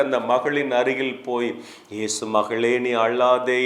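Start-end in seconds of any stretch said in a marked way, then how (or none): 1.9-3.6 gentle consoling. Acted. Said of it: "அந்த மகளை ஆறுதல் படுத்துகிறார்". (தாழ்ந்த, ஆறுதலான குரல்)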